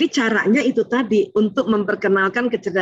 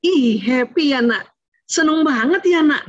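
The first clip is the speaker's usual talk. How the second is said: cheerful naming; 4 semitones higher, slower than usual. Shown as a demonstration. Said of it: "menamakan dulu emosinya".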